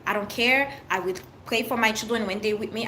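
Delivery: ordinary talk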